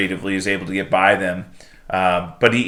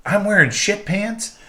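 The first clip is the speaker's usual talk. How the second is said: much higher, horrified squeaky question; mock horrified question; 10 semitones higher than usual. Economos learns about the uniform, horrified high question. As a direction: recoil in disgust, voice up high. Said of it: "And he's like".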